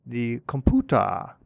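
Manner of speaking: "computer" said slowly as "kompyuta"; slow Japanese loanword version of "computer"; Japanese-style pronunciation. Retold or imitated. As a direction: draw out "computer" Japanese-style, open "ah" ending, no R. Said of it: "that's what they themselves called it".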